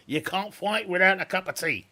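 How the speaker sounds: laughing through the line; giggly joking voice. Real, not acted. Laughing while joking about tea.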